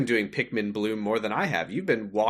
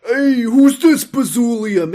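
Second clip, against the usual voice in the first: honking voice; 12 semitones higher, 11 dB louder, slower than usual. Pretend. Goose-like voice bit.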